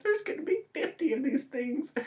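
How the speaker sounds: whispered, hopeless aside; defeated whisper. Real, not acted. Reviewer giving up on the franchise, whispered. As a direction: murmur it like you've given up.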